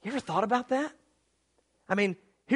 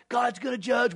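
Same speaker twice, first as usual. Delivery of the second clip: God's gonna judge yelled in mockery; mock shouted jeer. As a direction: shout it back in ridicule. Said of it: "all you talk about is".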